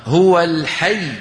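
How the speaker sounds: slow "هو الحي" with the weight on the ي; careful demo of the rule; pressure before the doubled letter. Shown as a demonstration. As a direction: lean on the doubled ي in "الحي" at the stop. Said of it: "نقف بضغط من الحرف الذي قبل المشدد".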